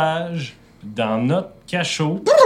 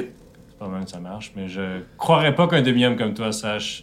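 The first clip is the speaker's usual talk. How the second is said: hushed guard voice; 4 semitones lower than usual. Acted. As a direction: speak it low and wary. GM voices Lex, quiet and low.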